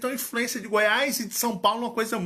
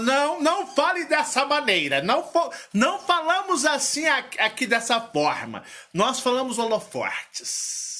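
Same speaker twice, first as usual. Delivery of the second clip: his throat lightly scolding him, pitched up; 3 semitones higher than usual. Retold or imitated. His own throat refusing the standard word, mock-scolding. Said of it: "minha garganta fala".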